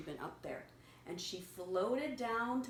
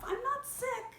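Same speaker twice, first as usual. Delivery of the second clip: caterpillar voice; 3 dB louder than usual. Acted. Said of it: "she told Marcel".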